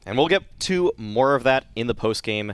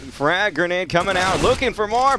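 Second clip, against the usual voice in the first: DJ Wheat radio caster; 4 semitones higher than usual. Pretend. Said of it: "D J Wheat impressions".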